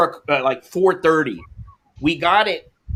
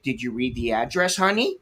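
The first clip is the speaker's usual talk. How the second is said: softer, low, sarcastic jab; sarcastic retort; 3 semitones lower, 6 dB quieter than usual. Retold or imitated. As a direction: ask it with quiet sarcasm.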